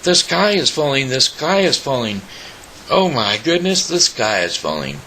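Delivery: panicked screaming. Acted.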